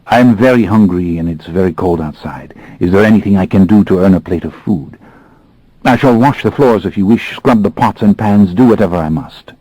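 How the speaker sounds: put-on thickened French accent, humble plea; a lightly thickened French accent; thick French accent. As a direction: lay on the French accent while begging for food. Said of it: "deliberately thickening my French accent".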